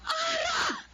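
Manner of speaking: sharp yell of the daughter's name; angry yell. Acted. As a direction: shout at her in anger. Mother yells daughter's name.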